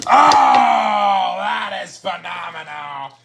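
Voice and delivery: thrilled outburst; excited shout. Real, not acted. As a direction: shout it in amazement. Reacting to a great pass.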